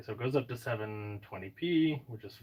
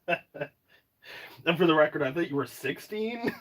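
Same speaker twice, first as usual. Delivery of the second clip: laughing. Real, not acted. Teasing, laughing at viewers.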